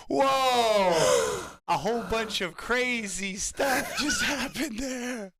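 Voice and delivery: slow words broken by laughter; laughing. Real, not acted. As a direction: laugh through the recap. Laughing over the chaos.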